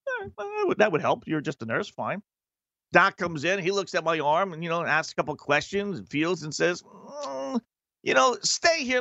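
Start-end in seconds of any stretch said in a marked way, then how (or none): 0.1-2.2 sarcastic. Retold or imitated. Sarcastic reply to the nurse. 6.8-9.0 a lightly voiced doctor, pitched higher; a hint of a doctor humming before he decides; mock doctor. Doctor telling the patient to stay, lightly imitated higher.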